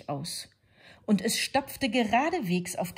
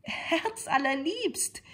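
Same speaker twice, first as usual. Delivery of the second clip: higher, slow, breathless "Herzallerliebst"; panting, sugary wolf; 11 semitones higher, slower than usual. A narrator's reading. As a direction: gasp it out sweetly. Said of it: "keuchte der Wolf".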